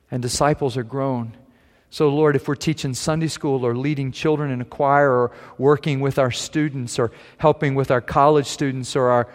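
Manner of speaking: earnest pastoral prayer. Acted. Pastor leading the congregation in prayer, earnest. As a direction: pray it over the church.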